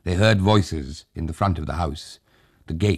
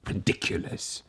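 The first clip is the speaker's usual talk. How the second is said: whispered; 2 semitones higher, 9 dB quieter than usual. A narrator's reading. Scoffing aside.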